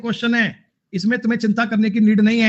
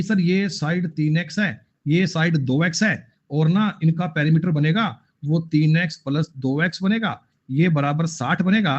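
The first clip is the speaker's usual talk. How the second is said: slow, lightly mocking student voice; mimicking a student; 3 semitones lower than usual. Teacher parodies a student's long method, slow and mocking. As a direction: spell out the long method slowly, like a plodding student. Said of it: "वो तरीका छोड़ देना आपने".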